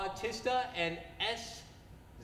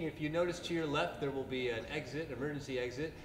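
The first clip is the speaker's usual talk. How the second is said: lightly done cabin announcement, quick; airline pilot announcement; 4 semitones lower, much faster than usual. Acted. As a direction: rattle it off like a pilot on the intercom. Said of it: "I gotta read it like an airline pilot".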